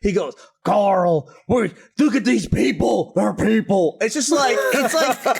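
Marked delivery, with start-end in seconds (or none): 0.6-4.0 mock Southern American drawl, slow; imitating a TV actor's odd American accent; lightly put-on Southern accent; Rick's Georgian drawl. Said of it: "the way that Rick talks in the show".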